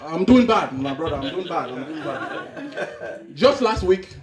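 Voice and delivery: downcast African man, trailing into misery; mock-mournful African accent. Man tells his brother of wife's death, mournful African accent. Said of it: "Two Africans that haven't seen each other".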